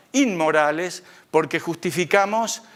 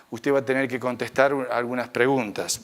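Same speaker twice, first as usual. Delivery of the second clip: San Pedro advirtiendo; 5 semitones lower than usual. Retold or imitated. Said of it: "me dice".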